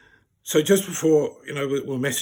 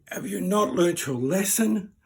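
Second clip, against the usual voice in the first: slow, higher-pitched imitation of a telling-off; mock scolding; 6 semitones higher, 3 dB louder, slower than usual. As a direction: play the outraged mate lecturing, drawn out. Mate scolds stranger, acted.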